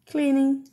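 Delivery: "Cleaning" said alone, spaced out; clear English model. Shown as a demonstration. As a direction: model "Cleaning" for the class to repeat. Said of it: "a limpeza se diz cleaning". (pronúncia modelo de "Cleaning" para repetir)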